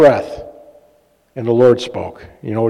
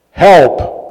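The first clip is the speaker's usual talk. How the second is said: retold plea; 5 semitones higher, 5 dB louder than usual. Retold desperate one-word prayer.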